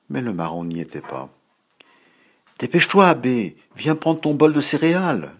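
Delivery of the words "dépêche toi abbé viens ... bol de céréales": put-on high, loud call to hurry the boy; mother hollering from the kitchen. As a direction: shout it across the house, higher. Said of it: "lui cria sa maman".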